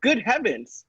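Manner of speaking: startled gasp of surprise; astonished. Acted. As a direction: blurt it out, caught off guard. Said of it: "I said you'd be surprised".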